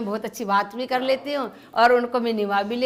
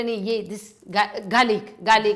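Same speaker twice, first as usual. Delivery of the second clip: slow teaching; 2 semitones lower, much slower than usual. Retold or imitated. Friend teaching the English word.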